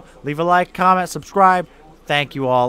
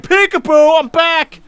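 peekaboo monster voice; 11 semitones higher, 10 dB louder, slower than usual. Pretend. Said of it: "just open the door and be like".

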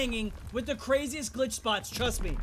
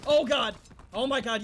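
jolted by a jump scare; startled; 5 dB louder than usual. Real, not acted. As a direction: caught off guard, loud gasp. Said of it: "You scared me".

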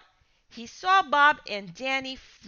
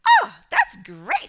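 much higher, slow, happy exclaim; delighted; 8 dB louder, slower than usual. Acted. Dad pleased his son got a job, delighted. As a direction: sound genuinely thrilled.

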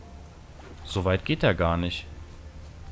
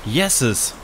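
sneezing. Real, not acted. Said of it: "oh, Entschuldigung".

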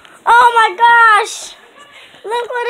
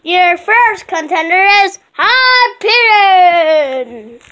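ring announcer; 4 semitones lower than usual. Pretend.

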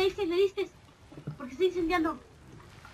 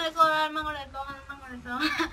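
laughing; 5 dB louder than usual. Real, not acted. Celebrating win, laughing.

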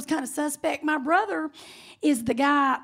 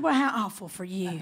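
lower, softer put-on sympathy; mock pity; 7 semitones lower, 5 dB quieter than usual. Bartender gets revenge on the customer, mock sympathy. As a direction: echo the customer's condescension back.

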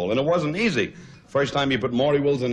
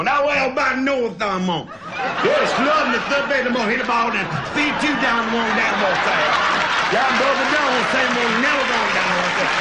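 Dizzy Dean impression; 11 semitones higher, 3 dB louder than usual. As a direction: holler it like an old-time ballgame announcer. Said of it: "just to hear Dizzy go".

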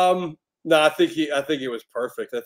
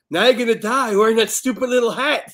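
higher, louder line through laughter; laughing quote; 8 semitones higher, 6 dB louder than usual. Retold or imitated. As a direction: quote it while cracking up. Quoting a favourite film line.

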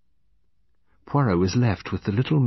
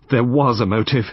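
clear, firm; 4 semitones higher, 6 dB louder than usual. A narrator's reading. Woman answers the doubt about her motive, clearly. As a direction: state it clearly, with weight. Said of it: "Miss Lingard said clearly".

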